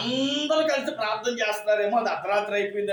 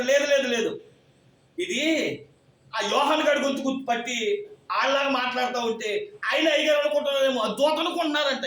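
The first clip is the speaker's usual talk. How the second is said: insistent denial; 4 semitones higher than usual. Retold or imitated. Insistent arguing voice.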